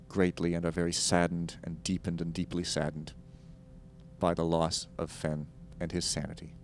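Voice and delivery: solemn public apology read; formal announcement. Pretend. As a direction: read it like an official notice.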